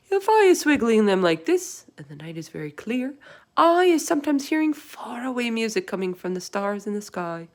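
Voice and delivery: booming giant voice, full of wonder; proud giant sharing a secret; loud giant voice. Acted. BFG voice.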